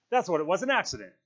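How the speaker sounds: high, loud insistence; shrill. A narrator's reading. Piggy presses his excuse on Ralph, shrill. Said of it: "His voice shrilled again".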